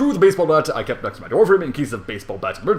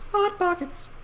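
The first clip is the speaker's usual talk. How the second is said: hot pockets squeaked much higher; slower than usual. Acted. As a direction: squeak it out like a toy.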